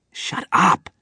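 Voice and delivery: sharp high shouted order; annoyed prisoner yelling to shut up. Acted. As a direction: bark it across the car. Somebody else yells in the dark.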